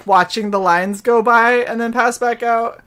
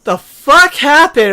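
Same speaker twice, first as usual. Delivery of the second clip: groggy confusion; 4 semitones higher, 4 dB louder, slower than usual. Retold or imitated. Waking confused after days.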